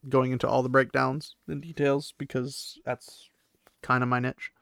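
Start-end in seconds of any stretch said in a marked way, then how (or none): 2.2-4.5 soft whisper; a quick confiding whisper; whispered aside. Real, not acted. Aside about her niche.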